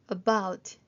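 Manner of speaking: About stressed on BOUT; stress on second syllable. Shown as a demonstration. Teacher demonstrating word stress, About with BOUT stressed. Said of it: "뒤에 강세가 있습니다".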